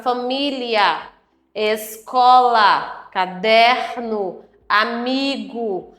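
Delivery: slow, measured word list; measured reading. Shown as a demonstration. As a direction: read each word slowly for the class. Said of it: "falar compassadamente".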